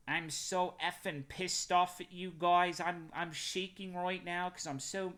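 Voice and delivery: put-on a half-hearted stab at a Canadian accent, slow and high; failed Canadian accent. Streamer imitating a Canadian guy's angry rant, weak Canadian accent. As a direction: mimic the Canadian guy's sincere rant, badly. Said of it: "I can't do the Canadian accent".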